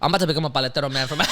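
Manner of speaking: fast, breaking into big laughter; laughing. Real, not acted. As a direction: laugh through the line. Laughs at own idea.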